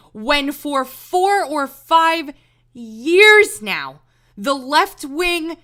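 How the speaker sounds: drawn-out, loud, each word hammered; slow it down and pound the point; slow emphatic stress. Real, not acted. Emphatic rant.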